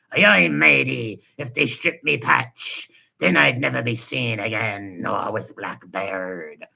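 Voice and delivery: lightly hammed-up pirate accent, slowing at the end; a mild mock pirate accent to mock him. Mocking a guest as a pirate, light pirate accent. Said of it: "he sounds like a pirate".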